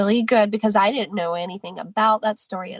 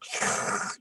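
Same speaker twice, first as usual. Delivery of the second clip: imitated drinking noise; 7 dB quieter than usual. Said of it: "They're like".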